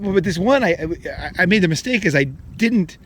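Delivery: normal talking voice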